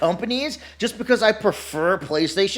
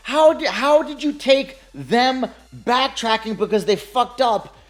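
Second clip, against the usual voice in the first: incredulous; 3 semitones higher than usual. Retold or imitated. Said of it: "And I'm like".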